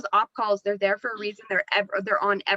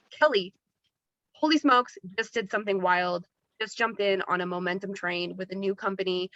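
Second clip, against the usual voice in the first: confident pitch. Shown as a demonstration. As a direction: sell the news with assurance. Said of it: "Be confident".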